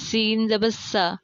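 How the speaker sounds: slow, thin hissed s in سا; distinct letter articulation. Shown as a demonstration. Teacher showing learners similar letters, slow light s. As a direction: say سا with a light, clear s. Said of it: "ان کی ادائیگی بالکل".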